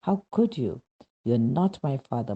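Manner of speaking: mock shouting up at the Lord in despair; retold shout at God. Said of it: "I shouted".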